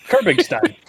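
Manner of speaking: lightly hammed-up Kyrgyzstan accent; mock Kyrgyzstan accent. Showing off an accent on request, mock Kyrgyzstan accent. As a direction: put on a made-up Kyrgyzstan accent. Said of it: "This is my Kyrgyzstan's accent".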